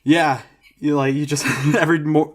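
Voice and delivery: normal talking voice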